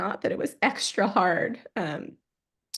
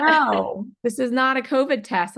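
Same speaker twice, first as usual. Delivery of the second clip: raised, louder mock-exasperated no; emphatic correction; 4 semitones higher, 4 dB louder than usual. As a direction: correct them firmly, voice lifted. Acting out the nurse correcting her.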